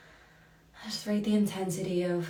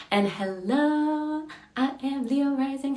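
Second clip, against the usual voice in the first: much higher, louder and slow, a gleeful sing-song; high excited greeting; 8 semitones higher, 5 dB louder, slower than usual. Real, not acted. Host playfully announces herself to the chat, high gleeful sing-song. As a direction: sing out the hello like a delighted announcement.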